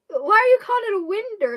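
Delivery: high, loud, quick protest; retold bafflement. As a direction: demand an explanation, baffled. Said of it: "And I was stunned".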